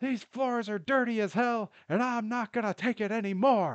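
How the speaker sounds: very high, shrill, loud all-out shout. Acting out shouting from a window: shouting a movie quote. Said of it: "you gotta shout".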